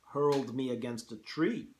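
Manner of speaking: put-on lightly Russian-accented hunter; a hint of a Russian general; General Zaroff. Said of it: "hard to do a Russian accent".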